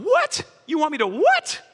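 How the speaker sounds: mock disbelief. Mock incredulous reaction to scripture.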